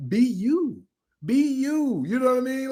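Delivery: high put-on voice. Coaching advice, high put-on voice.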